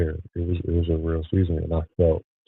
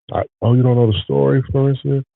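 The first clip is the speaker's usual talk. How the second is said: higher and louder, sudden burst; eager call to Florencia by name; excited aside; 8 semitones higher, 7 dB louder than usual. Real, not acted. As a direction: suddenly perk up to a viewer. Suddenly addressing a viewer.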